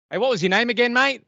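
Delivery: high, put-on voice dropping the act to ask a name; casual high aside to the comedian; announcer forgetting the name. Impersonator asking comedian's name on stage, high put-on voice. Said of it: "this was his introduction".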